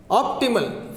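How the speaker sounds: "Optimal" said OP-timal, first syllable strong; stress on first syllable. Shown as a demonstration. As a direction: hit OP in "Optimal", fall after. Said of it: "this is stress".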